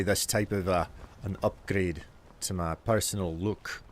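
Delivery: put-on Scottish accent. Shown as a demonstration. Streamer puzzled by angry eyebrows, in a Scottish accent. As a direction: keep up a performed Scots accent. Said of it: "are for the Scottish accent".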